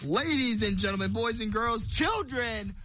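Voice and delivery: booming showman's opening; ringmaster. Acted. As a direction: hype it up like a circus ringmaster. Host's grand show opening.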